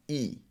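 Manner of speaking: "E." as a clear long ee; long E sound. Shown as a demonstration. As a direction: hold "E." as a pure ee vowel. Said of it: "make one sound only".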